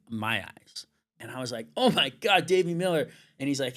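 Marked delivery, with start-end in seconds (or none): 1.8-3.1 starstruck. Retold or imitated. Retold meeting with his idol.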